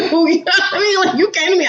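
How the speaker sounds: can't keep a straight face; laughing. Real, not acted. Laughing while telling the story.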